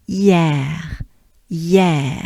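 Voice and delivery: short clipped "hier"; shortened hier. Shown as a demonstration. Teacher showing the shortened hier. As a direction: cut "hier" short, stress the eh. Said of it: "it will be a bit shortened".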